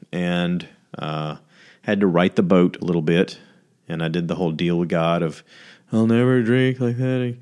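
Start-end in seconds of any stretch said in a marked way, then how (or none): 5.9-7.4 higher, slow pleading promise to God; a half-joking hangover oath, slow and raised; mock solemn vow. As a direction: ham up the hungover sinner swearing off booze. Bargaining vow to God after drinking.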